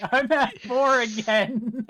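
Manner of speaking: laughing through the words; giggling it out. Real, not acted. Player laughing at result.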